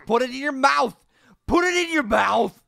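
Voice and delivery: insistent urging. Pretend. Player urging the Yeti to eat fish, insistent. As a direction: push harder with each repeat.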